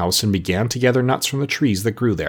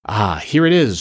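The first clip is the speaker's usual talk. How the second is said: joyful; 3 dB louder than usual. Acted. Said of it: "she cried joyfully".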